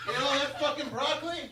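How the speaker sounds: usual speaking voice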